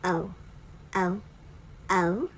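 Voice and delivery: o drawn out round and clear, three times; long o sound. Shown as a demonstration. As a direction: model the o slowly for children. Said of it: "The next sound is o".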